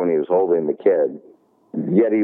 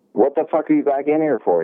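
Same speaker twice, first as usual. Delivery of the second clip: retold angry outburst; 7 semitones higher than usual. Confronting the thief he caught.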